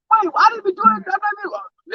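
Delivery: very high, drawn-out mimicked plea; imitated protest. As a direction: mimic her objecting, pitch way up and stretched out. Retells woman protesting her own arrest.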